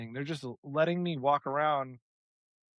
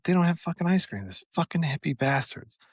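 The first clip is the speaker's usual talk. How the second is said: mock angry rant; 2 semitones higher than usual. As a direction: vent like a frustrated shopper. Angry about missing ice cream.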